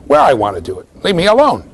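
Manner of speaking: high, quick bratty defiance; sing-song refusal of a stubborn child; defiant toddler. Retold or imitated. Lecturer voicing a defiant child refusing, high and bratty. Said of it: "The most obvious way to say".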